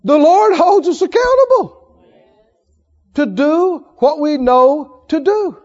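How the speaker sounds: loud, rising sermon voice; preaching at full force. Acted. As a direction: preach it out to the church.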